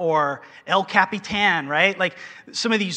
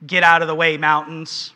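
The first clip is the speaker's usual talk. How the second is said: mock command; 5 dB louder than usual. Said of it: "he's not saying".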